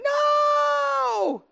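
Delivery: long, very high-pitched wailed cry; imitated child's scream. Parent retelling his child screaming over a toy sword, imitated wail. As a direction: imitate a kid screaming in distress, drawn out. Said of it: "someone start screaming and crying".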